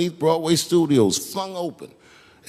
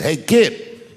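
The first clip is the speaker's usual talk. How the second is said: put-on a louder, rising "Hey, kid," like a producer barking a kid down; mock stern call; 4 dB louder than usual. Producer tells kid to sit.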